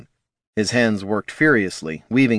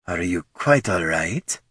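smirking; 2 semitones lower than usual. A narrator's reading. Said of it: "a smirk twisting her ruby lips".

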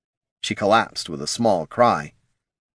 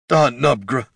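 gasped; 4 semitones higher, 4 dB louder than usual. A narrator's reading. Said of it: "he gasped".

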